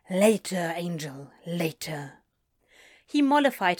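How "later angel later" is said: hushed put-off. Acted. Crowley brushing him off.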